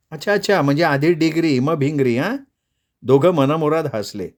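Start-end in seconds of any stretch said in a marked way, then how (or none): 0.1-2.4 Radha's voice, pitched up and playful. Acted. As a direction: tease him in a bright girlish tone. Radha joking.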